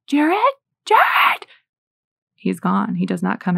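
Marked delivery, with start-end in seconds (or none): 0.1-1.5 high, rising panicked call; acted-out frantic mom calling; mother's panic. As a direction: call out for a lost child, pitch climbing sharply. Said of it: "the mother's panic".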